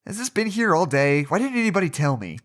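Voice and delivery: indignant. Acted. Finding a stain on the shirt, indignant.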